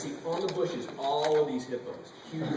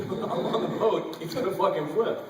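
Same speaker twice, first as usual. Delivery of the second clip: laughing; 4 semitones higher, 4 dB louder than usual. Real, not acted. Laughing recalling capsizing boat.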